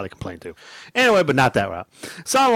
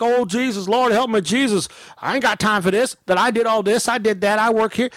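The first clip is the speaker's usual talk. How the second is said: higher-pitched imitation of a complainer; mock ranting; 3 semitones higher than usual. Storyteller imitating customer's complaints, mock rant and rave. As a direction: rattle off grievances in mockery. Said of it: "don't rant and rave like".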